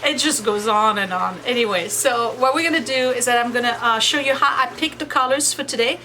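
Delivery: laundry machine humming behind voice; speaking over washing machine noise. Real, not acted. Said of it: "we're just gonna go with the machine".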